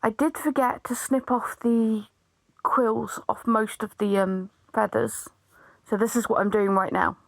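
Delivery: hoarse, fading voice; losing her voice, rasping through; raspy whisper. Real, not acted. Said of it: "I'm losing my voice a little bit today".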